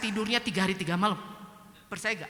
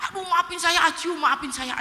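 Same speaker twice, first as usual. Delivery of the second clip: a touch of begging, higher and louder; pleading apology; 8 semitones higher, 6 dB louder than usual. Retold or imitated. Friend begging the speaker's forgiveness, lightly acted pleading apology. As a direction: imitate someone urgently asking pardon.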